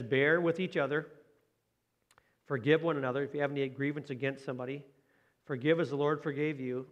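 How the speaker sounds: measured, slowed reading of scripture. Acted. Pastor reading Colossians to his congregation, measured scripture reading. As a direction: read the verse to the church with care.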